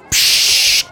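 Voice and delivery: unvoiced hushing "Psst"; shushing. Sarah hushing Fluguri, voiceless shush. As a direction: hush him sharply under the breath. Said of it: "macht Sarah daher".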